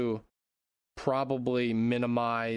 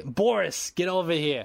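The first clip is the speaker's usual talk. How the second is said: raised, mock tough-guy accent; Vladimir Putin; 5 semitones higher, 3 dB louder than usual. Host voices Putin calling over Boris, hammed-up accent. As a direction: summon a lackey in a hammed-up accent. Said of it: "I don't know why he has that accent".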